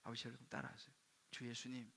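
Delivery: hushed, low prayer voice; quiet, reverent phrases; leading prayer. Retold or imitated. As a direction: softly lead your father in prayer. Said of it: "기도했어요".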